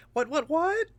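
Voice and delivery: squeaky high goblin "what, what, what"; quick high goblin yelps. Pretend. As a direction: pipe it up like a nervous goblin. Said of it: "I'm trying to do goblin voices".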